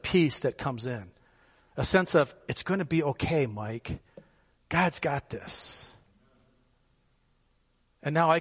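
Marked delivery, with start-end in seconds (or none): 2.5-5.9 reassuring inner voice. Retold or imitated.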